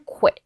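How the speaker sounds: quit with k gliding into w; clear KW sound. Shown as a demonstration. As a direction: sound out k plus w at the start of quit. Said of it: "이런 식으로 크하고 W". (quit의 첫소리를 '크+W'로 발음)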